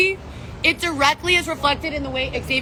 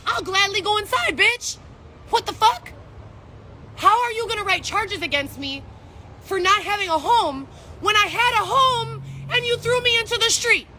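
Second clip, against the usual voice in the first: higher, rising indignant protest at the officer; retold angry protest; 5 semitones higher than usual. Retelling her argument with the ticketing officer, higher indignant protest. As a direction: throw her question back at her, climbing in outrage.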